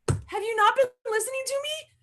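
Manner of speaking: high-pitched retold indignation; mock exasperation. Bag seller to people asking where she got it, mock exasperated. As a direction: ask it high, in playful disbelief. Retold reply to clueless askers.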